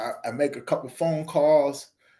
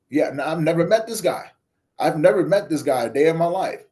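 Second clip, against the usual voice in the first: louder, insisting he never met him; incredulous protest; 3 semitones higher, 5 dB louder than usual. Retold or imitated. Telling a stranger he never met him, incredulous and louder. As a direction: push back in disbelief, voice up. His shocked reaction to stranger.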